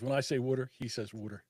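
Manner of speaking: both "water"s pronounced WOOD-er; "water" as wooder. Shown as a demonstration. Explaining how Mike echoes it, "water" said as wooder. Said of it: "he hates it when I say water correctly".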